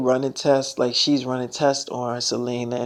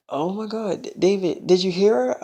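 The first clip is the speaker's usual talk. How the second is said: higher-pitched mild disbelief; retold astonishment; 4 semitones higher than usual. Woman to David after the doctor left, mildly astonished. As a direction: imitate her amazed reaction.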